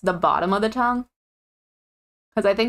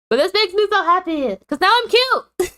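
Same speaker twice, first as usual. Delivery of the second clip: put-on Valley girl voice; 9 semitones higher than usual. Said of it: "My Valley girl voice".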